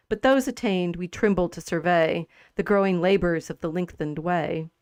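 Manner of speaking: measured verse recitation, slowing at line ends; steady, lightly formal poem reading; poetry reading. Acted. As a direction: read the couplets evenly and deliberately. Reads Pope's poem aloud.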